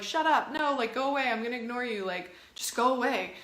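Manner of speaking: acted scolding, easing as it goes; dismissing a needy child. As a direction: shut the whining kid down impatiently. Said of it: "your inner child is doing".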